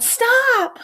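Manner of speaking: very high, loud desperate yell; yelling stop. A narrator's reading. Arthur yells to stop Mom, very high and loud. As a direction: stop Mom before she hits the button. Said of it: "Arthur yelled".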